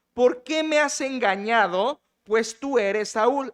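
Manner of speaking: drawn out, each word weighed, me and tú lifted; slow dramatic reading. Shown as a demonstration. Pastor reading the medium's accusation to the congregation, slow and weighty. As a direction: read the medium's cry slowly, savoring it. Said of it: "Versículo trece lo dice".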